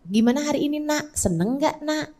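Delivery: put-on soft, tender mother asking her child; mother gently checking in at bedtime; gentle bedtime asking. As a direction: coax the child to share, softly. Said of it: "Tiap kali pulang sebelum tidur tanyain".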